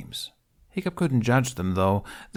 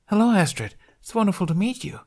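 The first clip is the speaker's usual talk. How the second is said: much higher, louder, eager little voice; bubbly Tooth; 11 semitones higher, 4 dB louder than usual. Acted. Tooth greeting the audience after the show, bubbly and eager. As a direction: bounce every word with delight.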